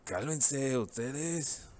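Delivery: Cálmense ustedes drawn out slowly, ustedes pushed up high; slow, pointed command that drives the point home; emphatic ustedes. Shown as a demonstration. Teacher models an emphatic command to students, slow and pointed. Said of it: "for emphasis to really drive the point home".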